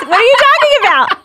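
high and loud, laughing through his stunned reply; laughing imitation. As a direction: quote him while cracking up.

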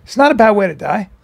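understated deadpan delivery; dead serious. Retold or imitated. Pilot dad to son after near crash, dead serious. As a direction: imitate a dad calmly unfazed by danger. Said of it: "Dead serious".

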